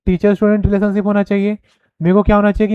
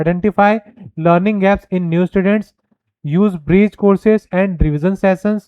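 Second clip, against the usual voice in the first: very slow, each word spaced out; dictating a point; slow dictation; much slower than usual. Shown as a demonstration. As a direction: read it slowly so students can write. Reading slide points aloud.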